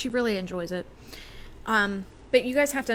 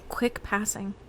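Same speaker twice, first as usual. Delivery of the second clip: whispering; slower than usual. Real, not acted. Medium senses spirit.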